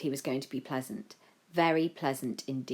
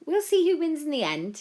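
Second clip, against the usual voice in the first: higher, determinedly composed; forced smile; 12 semitones higher, 6 dB louder than usual. A narrator's reading. Joe stands up to Violetta, composed with a forced smile. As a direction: smile through the challenge. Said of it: "managing a smile that was almost genuine".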